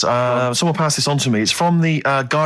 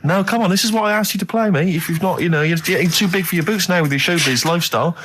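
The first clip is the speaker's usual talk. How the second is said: higher-pitched exasperated telling-off; scolding; 4 semitones higher than usual. Real, not acted. Presenter berates producer over the records, scolding. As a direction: tick him off, pitch jumping up.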